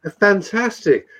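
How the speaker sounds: a lightly put-on posh English accent to take the piss. Taking the piss of posh people in posh English accent. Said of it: "I'm like".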